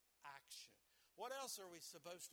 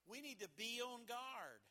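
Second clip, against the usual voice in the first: firm warning; 4 semitones higher, 4 dB louder than usual. Acted. Repeated line.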